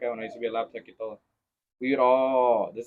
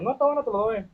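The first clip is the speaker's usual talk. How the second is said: mock dad reply; 11 semitones higher, faster than usual. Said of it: "Le digo".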